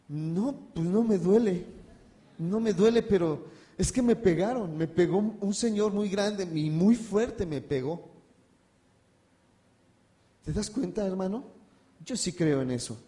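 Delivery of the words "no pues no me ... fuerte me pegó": bewildered insisting. Retold or imitated. Brother tells the hospital doctor he was beaten, baffled. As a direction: insist you were hit though nothing hurts.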